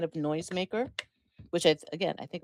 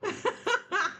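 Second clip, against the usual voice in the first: evil cackle. Pretend. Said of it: "she keeps laughing like that".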